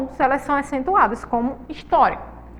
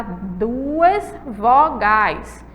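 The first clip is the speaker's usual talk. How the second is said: slow sounding out; 3 semitones lower, much slower than usual. Shown as a demonstration.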